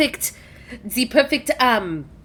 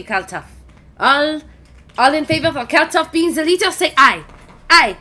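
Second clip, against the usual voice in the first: hearty raised-cup toast, lightly voiced; a toast to the new leader; Macaron toast; 4 semitones higher, 3 dB louder than usual. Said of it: "Macaron raises up his cup and goes".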